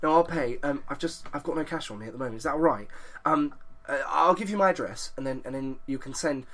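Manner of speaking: soft, apologetic English gent, a touch flustered; posh English persona. Retold or imitated. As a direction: play the disarming Englishman dodging a fine. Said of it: "I go really English, and I'm called Lloyd Irving".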